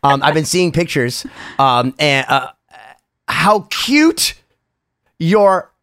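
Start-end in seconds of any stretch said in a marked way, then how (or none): 3.3-5.7 gushing. Real, not acted. Gushing over his baby pictures.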